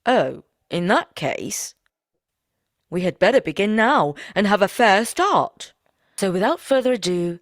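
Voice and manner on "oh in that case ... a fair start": alarmed. Acted. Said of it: "the woodman became quite pale".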